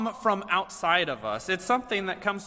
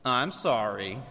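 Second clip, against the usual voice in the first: reluctant apology; 5 semitones lower than usual. Retold or imitated. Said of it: "tell your sister that you're sorry".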